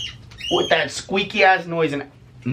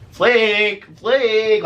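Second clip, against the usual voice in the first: high, loud dopey calling; mocking drunk call; 9 semitones higher, 4 dB louder than usual. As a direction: imitate a drunk friend calling out. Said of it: "like a fucking retard".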